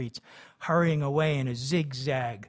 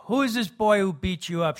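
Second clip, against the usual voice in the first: higher, louder demand; 6 semitones higher, 5 dB louder than usual. A narrator's reading. Mother demanding who beat her son, raised and high. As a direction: insist on an answer. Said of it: "she demanded".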